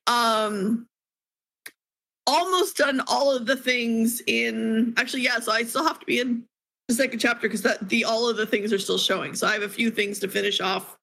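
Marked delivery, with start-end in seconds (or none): 2.3-11.0 talking through hiccups; suppressing hiccups. Real, not acted. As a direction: hold back the hiccups while talking. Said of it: "Sorry, I have the hiccups all of a sudden".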